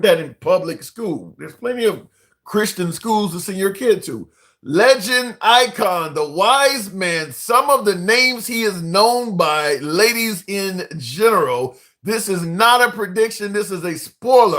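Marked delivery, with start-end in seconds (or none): 4.6-11.8 slow, drawn-out hype intro; hyped announcer intro. Acted. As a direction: announce him like a legend.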